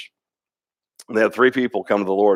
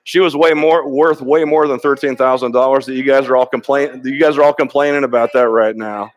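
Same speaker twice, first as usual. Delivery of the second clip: raised, insistent voice quoting the businessman; emphatic rebuke; 3 semitones higher, 4 dB louder than usual. Retold or imitated. Businessman rebukes the complaining leaders, loud and insistent. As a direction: press it hard, pushing back on the complaints. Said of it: "And he goes".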